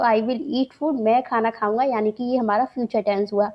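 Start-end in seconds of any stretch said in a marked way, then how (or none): 0.0-1.0 "I will eat food" very slowly; slow recap. Shown as a demonstration. Teacher to students, repeating the example very slowly. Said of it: "तो I will eat food".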